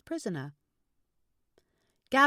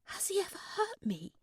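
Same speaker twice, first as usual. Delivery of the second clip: higher female voice; 13 semitones higher than usual. A narrator's reading. Claire voiced, high.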